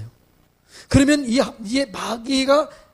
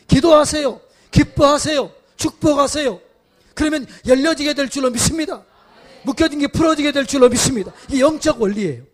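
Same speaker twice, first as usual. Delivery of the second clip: louder and higher, building sermon proclamation; fiery preaching; 4 semitones higher, 4 dB louder than usual. Acted. Pastor urging the congregation to give thanks, fiery preaching. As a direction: proclaim release over the congregation.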